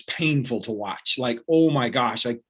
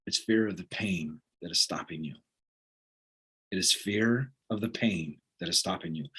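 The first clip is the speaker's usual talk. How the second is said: much lower and softer, a coach's weighty verdict; grave coach; 6 semitones lower, 8 dB quieter than usual. Retold or imitated. Old coach looking down at the fallen runner, low and quiet.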